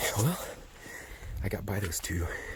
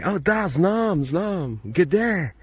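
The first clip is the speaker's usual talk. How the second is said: higher, put-on casual phone talk; fake Serbian phone chat; 9 semitones higher, 4 dB louder, much slower than usual. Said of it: "just say Serbian stuff".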